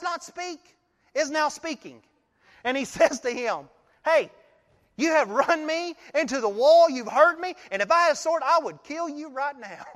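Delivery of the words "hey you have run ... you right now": mock-furious rant, pitch up and louder; hammed-up outrage at the donkey; mad rider. Balaam yelling at his talking donkey, mock-furious. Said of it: "he's so mad".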